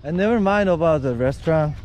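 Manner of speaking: ordinary talk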